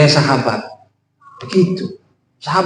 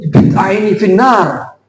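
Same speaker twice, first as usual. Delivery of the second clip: harsh condemnation; slower than usual. Shown as a demonstration.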